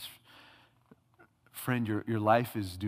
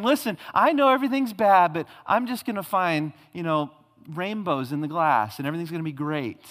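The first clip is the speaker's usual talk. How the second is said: higher and louder, hammed-up cheery naive believer; mock Pollyanna optimism; 4 semitones higher, 4 dB louder than usual. Preacher mocking a Pollyanna faith to the congregation, hammed-up cheer. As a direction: play the relentless optimist, mock-bright. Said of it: "Pollyanna, like, the hopeful".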